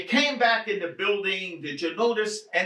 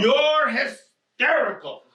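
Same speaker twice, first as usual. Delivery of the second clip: slower, louder accusation; insistent; 4 semitones higher, 4 dB louder, slower than usual. Acted. Husband insisting to his upset wife, louder and slower. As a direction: lean hard on it, slowly.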